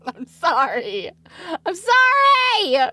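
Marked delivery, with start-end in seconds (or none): 1.6-2.9 squealed high through real laughter; laughing apology. Real, not acted. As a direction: apologize while cracking up, high and louder. Cracking up apologizing.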